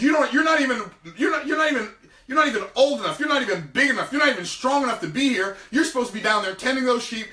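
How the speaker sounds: scolding big brother. Acted. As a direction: berate him like a fed-up big brother. Eliab scolding David, acted out.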